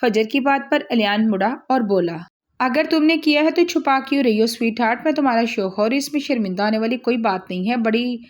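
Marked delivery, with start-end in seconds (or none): 2.6-7.8 mock gentle. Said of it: "बड़ी लहाजत से कहकर".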